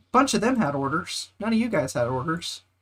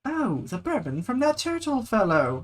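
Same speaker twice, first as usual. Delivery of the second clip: voicing an NPC; 4 semitones higher than usual. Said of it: "reads quest NPC dialogue aloud".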